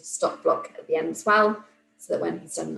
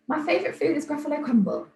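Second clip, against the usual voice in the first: squeaky mouse voice; 8 semitones higher, faster than usual. Shown as a demonstration. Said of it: "in a really squeaky little mouse voice".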